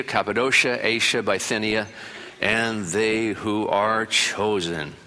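slow, weighty reading of the verse; scripture reading. Acted. Preacher reading First Peter to the congregation, slow and solemn. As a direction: lay each place name down slowly. Reads scripture aloud slowly.

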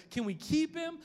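little daughter begging to keep the stray cat; pleading little daughter. Retold or imitated. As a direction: beg like a little girl asking daddy. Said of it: "And she's like".

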